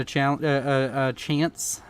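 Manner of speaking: tripping over a word, restarting; stuttering. Real, not acted. YouTuber plugging his other content, stuttering. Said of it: "I'm stuttering".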